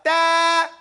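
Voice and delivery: "Ta" pressed, then straight into a long vowel; pressed, separated consonant. Shown as a demonstration. Teacher coaching articulation, pressed drawn-out "Ta". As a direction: press the t and sustain "Ta". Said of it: "Press and step, separate straight up".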